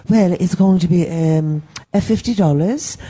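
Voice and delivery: hesitant, badly faked accent of no clear country; muddled foreign accent. Comic retelling the clerk quoting the fee, muddled mock accent. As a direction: imitate a clerk in an unplaceable accent. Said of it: "what the fuck is this accent?".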